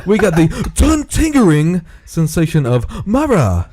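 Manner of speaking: hammed-up mock Asian-British commercial accent; bad Asian-British accent. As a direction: put on a clumsy Asian-tinged British accent, swooping up. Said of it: "like, Asian bad accents in British".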